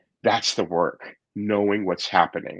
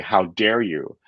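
mock indignant rant, slightly raised; replaying his own defensive outburst; half-acted huffy tirade; retold angry blaming; 5 semitones higher than usual. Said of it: "started to blame and shit and going".

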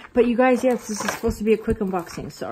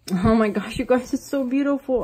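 excited; 5 semitones higher than usual. Real, not acted. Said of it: "I'm so excited".

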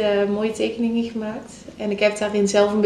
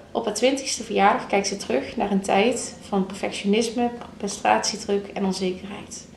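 reading aloud. Shown as a demonstration. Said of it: "stukje van de achterkant, eh, voor kunnen lezen".

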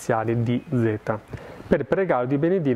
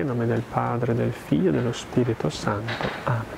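steady liturgical prayer recitation; recited prayer. Acted. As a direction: intone the doxology and blessing like a priest. Closing prayer and blessing.

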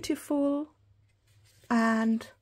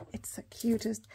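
whisper; 6 dB quieter than usual. Real, not acted. Showing washi to viewers.

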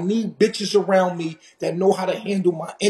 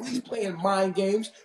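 mocking quote; 6 dB quieter, slower than usual. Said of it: "Don't give me that".

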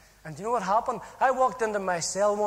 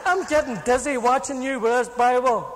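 complaining cellmate; 2 semitones higher, 5 dB louder than usual. Retold or imitated. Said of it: "and my cellmate, he was going".

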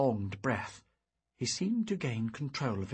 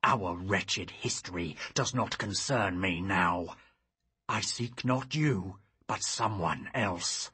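grim; 2 semitones lower than usual. Acted. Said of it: "his voice grim".

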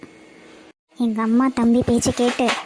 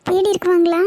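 higher-pitched, anxious voice; frightened; 4 semitones higher than usual. Acted. Runaway alone on the road with nowhere to go, frightened. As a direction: think aloud in fear, alone and lost. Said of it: "ரொம்ப பயமா இருக்கு".

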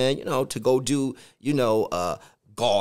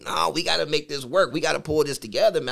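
frustrated. Retold or imitated. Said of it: "now I'm getting frustrated".

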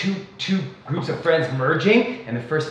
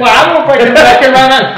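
mock hick shout; 7 semitones higher, 10 dB louder than usual. Quoting a rival in an argument.

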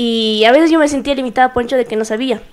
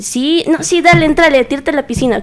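eager yes; 5 semitones higher than usual. Retold or imitated. Eager yes to joining orchestra.

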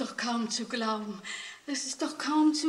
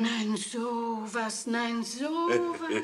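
slow amazement; much slower than usual. Acted. Grandmother hears of the reward, slow and amazed. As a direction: shake your head in slow disbelief.

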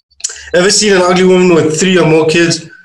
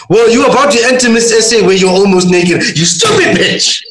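acted outrage; 5 semitones higher than usual. Reading an abusive tweet to the co-host, mock outraged. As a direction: read it indignantly, erupting on the last words.

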